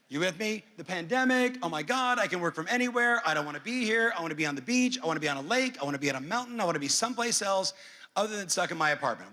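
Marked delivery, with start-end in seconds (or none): 1.6-9.3 dreamy, excited rush of wants; hammed-up eager homebuyer; excited client voice. Voicing pandemic-era clients.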